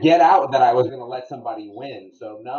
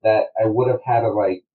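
distant, through a wall; like talking from the next room; far away; 3 semitones lower than usual. Real, not acted. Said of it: "Why do you sound so far away".

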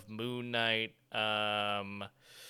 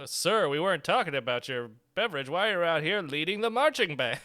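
louder, stern mock cop voice; police officer; 4 semitones higher, 7 dB louder than usual. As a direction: question him like a puzzled cop. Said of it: "And it's like".

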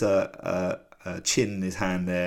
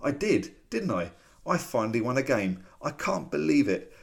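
higher, excited disbelief, lightly voiced boy; overjoyed he finally won, pitched up; thrilled disbelief; 4 semitones higher than usual. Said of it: "He's like".

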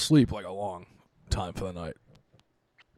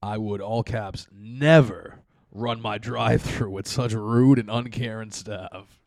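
indignant reviewer; 4 dB louder, slower than usual. Retold or imitated. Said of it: "this middle one".

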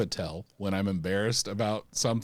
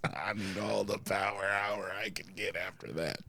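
whisper; 2 semitones lower, 6 dB quieter than usual. Retold or imitated. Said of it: "It was like".

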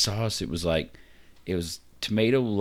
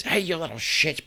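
high-pitched mock scolding; bus driver screaming; 10 semitones higher than usual. Would-be bus driver to the kids, mock scream. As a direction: pretend to yell at kids without real volume. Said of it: "I could scream at some kids".

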